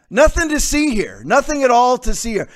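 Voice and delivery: dry mock shrug, nothing to see; sarcastic. Real, not acted. Host mocking listeners' complacency, sarcastic. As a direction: toss it off with heavy irony. Sarcastic dismissal after Gates clip.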